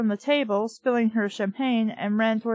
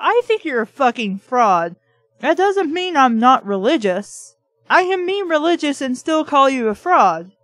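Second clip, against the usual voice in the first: louder, fired-up telling off, rushing the list of frauds; heated rant; 3 semitones higher, 4 dB louder than usual. Acted. Reader rants as if answering Arnold, heated and loud. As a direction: rant like you're finally saying it to his face. Ranting back at the drunk Arnold.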